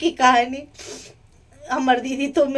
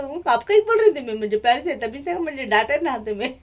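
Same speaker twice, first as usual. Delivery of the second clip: mock retort; 2 semitones higher than usual. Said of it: "इस तरह shoot कहती है".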